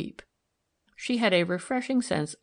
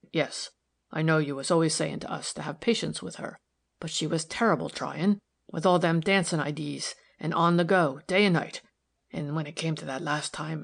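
lightly voiced rustic workman, earnest; humble workman. Workman confiding to a lady about a trying girl, earnest. Narrator voices Batson in dialogue.

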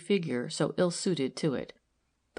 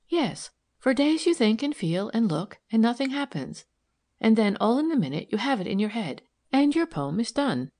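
higher-pitched, lively explanation; lightly voiced amused young detective; 5 semitones higher, 3 dB louder than usual. Narrator voices Milly, amused.

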